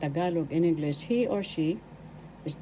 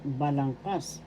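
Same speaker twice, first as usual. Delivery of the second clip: balangkas with the final kas accented; stress on third syllable; 2 semitones lower than usual. Shown as a demonstration. Teacher reviewing the word for structure, balangkas stressed on kas. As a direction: put the weight on KAS in balangkas. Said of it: "The third syllable has the accent".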